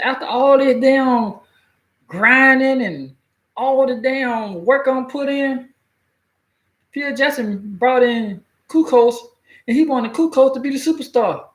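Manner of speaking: high, slow, drawn-out griping as Scotty; a hint of Scotty grumbling, high and slow; aggrieved complaint. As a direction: stretch it out like a wronged star who did all the work. Scotty complaining about Kukoc.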